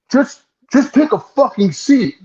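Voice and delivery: high-pitched, drawn-out irritated mock yell; mock screaming. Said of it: "Screaming at me".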